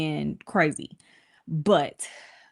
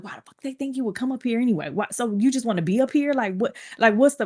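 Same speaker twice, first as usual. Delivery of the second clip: imitating mom ranting; 5 semitones higher than usual. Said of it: "She's like".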